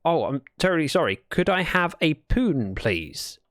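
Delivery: lightly put-on French accent; a hint of a polite French guest; understated French accent; slight French accent. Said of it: "in a slightly French accent".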